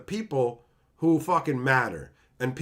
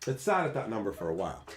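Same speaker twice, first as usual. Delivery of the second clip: softer, murmured repeat; quiet aside; 5 semitones lower, 6 dB quieter, faster than usual. Acted. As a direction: say it again to yourself.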